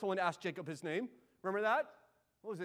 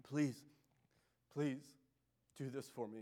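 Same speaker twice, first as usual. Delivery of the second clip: pleading cry; 6 semitones lower, 5 dB quieter, slower than usual. Acted. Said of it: "And Jacob cries".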